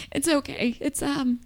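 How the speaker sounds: high, soft, small voice; hushed little "it's okay"; subdued reassurance. Acted. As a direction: softly recover from the outburst. Collecting herself after an outburst.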